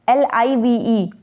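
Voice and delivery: एल आई वी ई spelled slowly letter by letter; spelling out letters. Shown as a demonstration. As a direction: spell each letter out slowly, one at a time. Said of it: "जैसे अब आप कहेंगे, देखिए". (अक्षर-अक्षर धीरे से बोलना)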